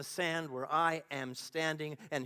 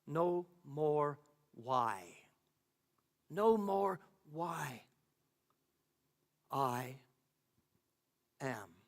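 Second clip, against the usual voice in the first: voice of God; 2 semitones lower, much slower than usual. A narrator's reading. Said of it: "The voice continues".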